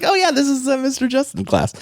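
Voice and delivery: high, bright mock exclamation; playful high-pitched quote of himself; mock excited recall. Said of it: "So I was like".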